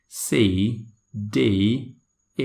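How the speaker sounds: "C", "D", "A" recited one by one with a falling British tone; British letter names. Shown as a demonstration. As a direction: let each of "C", "D", "A" drop from the top. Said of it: "in British accent".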